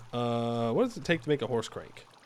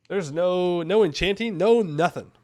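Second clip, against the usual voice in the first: louder, gleeful listing; 4 semitones higher, 5 dB louder than usual. Real, not acted. Gamer gloating to viewers, gleeful. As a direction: crow that there's none at all. Gleeful rant about no magic.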